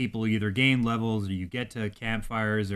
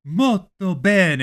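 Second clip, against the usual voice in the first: slow, loud hammed-up Italian accent; mock Italian plumber voice, slow and loud; mock Mario accent; 6 semitones higher, 7 dB louder, much slower than usual. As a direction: drag it out like a cartoon plumber. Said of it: "surgical process where it's like".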